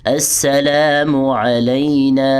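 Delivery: slow, drawn-out Quranic-style recitation of السلام علینا. Shown as a demonstration. Teacher reciting the tashahhud slowly for students. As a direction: chant each syllable long, with a guttural ع. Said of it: "عین کو آپ نے حلق کے درمیان سے ادا کرنا ہے".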